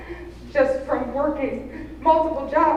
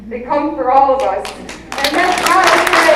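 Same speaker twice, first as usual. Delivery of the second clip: passionate outcry; 4 semitones higher, 10 dB louder than usual. Real, not acted. Building plea at town hall.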